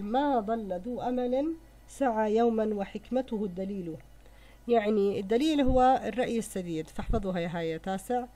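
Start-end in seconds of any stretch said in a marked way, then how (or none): 0.0-4.0 measured, slow verse reading; slow recitation. Shown as a demonstration. Teacher reciting verse to the ninth grade, slow and measured. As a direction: recite each word slowly and deliberately. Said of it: "البيت الرابع يقول".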